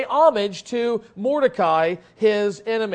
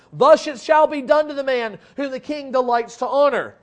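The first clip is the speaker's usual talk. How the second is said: proclamation; 3 semitones higher, 5 dB louder than usual. Acted. Herald proclaiming before the honored man.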